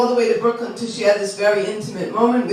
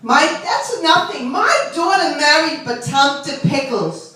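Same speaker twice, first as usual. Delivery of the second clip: lightly voiced bragging mothers; one-up each other on the children's marriages; a hint of Long Island parlor lady; beauty parlor ladies; 3 semitones higher, slower than usual. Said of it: "This is how they really talk".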